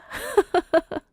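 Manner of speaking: high, soft laugh; a small indulgent laugh trailing down; light chuckle. Acted. Future mother-in-law joking about her son, light chuckle.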